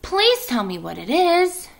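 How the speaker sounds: high pleading pig voice; begging piglet. Acted. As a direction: beg her to tell. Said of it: "begged Wilbur".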